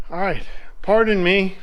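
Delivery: breathless, catching his breath; winded from the work. Real, not acted. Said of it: "I'm out of breath".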